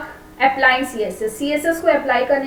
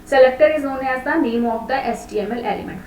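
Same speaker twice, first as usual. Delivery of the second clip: slow dictation; much slower than usual. Shown as a demonstration. Teacher dictating a definition.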